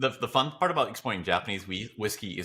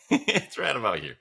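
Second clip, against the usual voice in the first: laughing punchline. Real, not acted. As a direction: squeal it out, cracking up at your own joke. Mocking how little people know.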